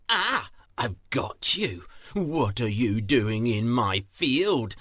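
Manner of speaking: loud, accusing demand; angry farmer. Acted. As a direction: confront the thief you've caught. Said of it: "said he angrily".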